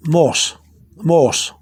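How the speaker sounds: "morse" as mo-os, two blended O's; O pronounced twice. Shown as a demonstration. Teacher correcting learners who hear English moss, double O in "morse". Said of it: "You're pronouncing the O twice".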